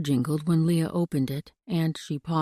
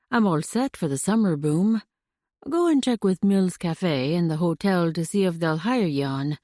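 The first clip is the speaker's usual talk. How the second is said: put-on Scottish accent. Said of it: "His accent was unmistakable and charming".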